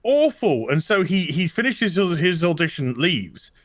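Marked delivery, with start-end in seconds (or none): 0.0-0.7 dragged-out, higher "awful", as if appalled; mock dismayed verdict. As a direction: imitate panel members sounding appalled. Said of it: "they were just like".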